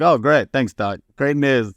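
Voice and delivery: put-on young patient drily thanks the doctor; sarcastic thanks. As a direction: fake gratitude for bad news. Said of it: "I was like".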